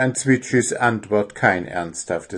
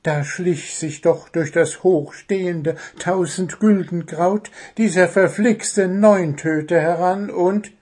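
higher-pitched storytelling bird voice; high little bird, lively and wordy; chattering little bird; 7 semitones higher than usual. Acted. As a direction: play a small bird lost in a tale, then caught short.

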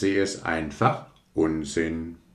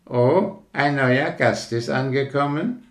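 higher frog voice; cheerful frog; 7 semitones higher than usual. Acted. Frog welcomes rocket to the ditch, cheerful. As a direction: greet the newcomer happily.

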